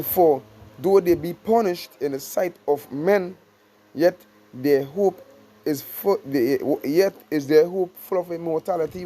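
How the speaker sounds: slow, drawn-out verse reading; scripture reading. Acted. Preacher reads the promise to believers, slowly. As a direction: linger on each phrase of the verse.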